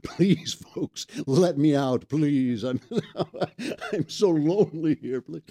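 pleading, half-joking lonely prisoner voice; mock desperate plea; mock plea to be let out. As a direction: beg to be released, hammed-up. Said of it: "I just feel like".

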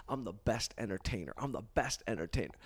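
low, soft self-affirmation; understated private mantra; incantation. Retold or imitated. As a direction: recite it to yourself, low and subdued. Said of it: "you do incantations".

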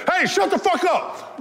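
high, slow mock ref yell; laughing mock ref; imitating ref. Ref Joe yelling at players, laughing high. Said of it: "Joe stuck his head in".

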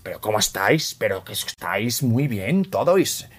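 put-on slow, lisping Castilian Spanish accent; a colleague's Spain Spanish accent, lightly imitated. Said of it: "hay unas eses".

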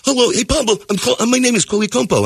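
high-pitched impression of a foreign student; put-on high student voice; exchange student. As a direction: introduce yourself as the odd houseguest. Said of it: "he talks like this".

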